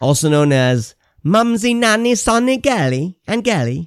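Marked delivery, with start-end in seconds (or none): 1.2-3.9 very high-pitched, fake, phony British accent. Joking with a co-host in front of listeners: put-on British accent. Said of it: "Apologies to all of our UK listeners".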